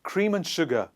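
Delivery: weak "un" for AND, linked to cream; listen-and-repeat model. Shown as a demonstration. Teacher has class listen first, AND weakened to "un". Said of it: "Listen first and then repeat later".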